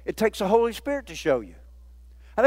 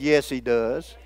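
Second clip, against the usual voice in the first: reassuring reply; 8 semitones lower, slower than usual. Retold or imitated. Preacher repeats to the doubter, low reassurance. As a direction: gently insist again. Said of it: "I said".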